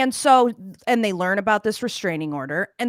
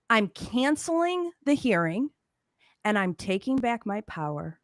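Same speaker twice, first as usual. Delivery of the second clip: mock proclamation. Retells her grand announcement.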